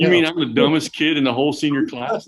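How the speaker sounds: loud, high retold shock; jaw-dropped disbelief. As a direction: exclaim it as if your jaw just dropped. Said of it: "my jaw dropped".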